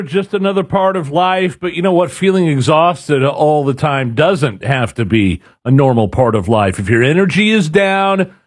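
upbeat live ad read; radio ad read. Acted. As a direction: sell it like a radio host. Reads a live ad.

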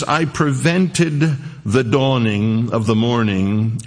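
put-on slow, drawn-out reading of old text; slow, solemn King James reading; solemn scripture reading. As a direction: savour each old word.

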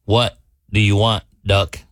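low, contained anger; mad bartender. Acted. Fed-up bartender leans in on the duck, low and mad. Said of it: "he's mad".

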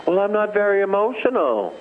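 high mocking voice with stress on "very"; mock stiff believer. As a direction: parody the reluctant one, pitched high. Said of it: "Same people say".

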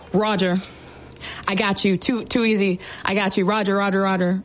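eager, willing acknowledgment; happy to help, ready to go; respectful roger. Shown as a demonstration. Soldier cheerfully acknowledging a sergeant's request, eager and respectful. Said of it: "being super respectful".

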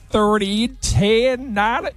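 put-on American accent.

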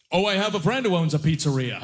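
a mild put-on dad voice; deadpan dad voice, pleased with himself; imitating her father. Father to daughter's boyfriend, lightly voiced dad.

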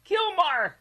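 very high drawn-out cry of a name; mock wife calling. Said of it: "baby mama or wife says".

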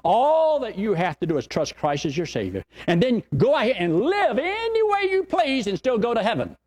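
high, scornful mock of a lax belief; mocking quote. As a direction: sneer it out as a foolish claim. Mocking a false teaching.

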